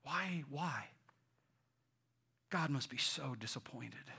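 hushed inner accuser; soft, low self-reproach; voice of condemnation. Acted. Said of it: "the voice of condemnation comes and says".

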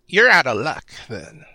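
put-on a bird girl squawking a threat. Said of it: "trying to do a girl's voice, but trying to do a bird voice".

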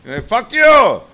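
high, drawn-out heckle from the back; imitated heckler shouting over the room; heckler's yell. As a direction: call it out like an angry heckler. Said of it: "some little Mexican guy in the back goes".

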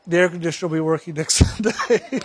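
laughing through the end of the line. Real, not acted. Joking to the congregation about the air conditioner, laughing. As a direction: break into a laugh at the punchline.

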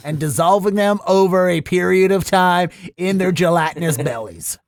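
put-on Boston local; Boston accent. Bostonian complaining about newcomers taking jobs, Boston accent. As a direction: rant as a Boston townie, accent light. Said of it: "this is my Boston accent from now on".

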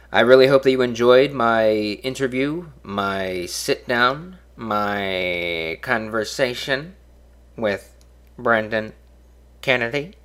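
very slow, drawn-out smug host voice; lightly voiced slick talk-show host, dragging every word; Dennis Miller impression. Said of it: "terrible impression of Dennis Miller".

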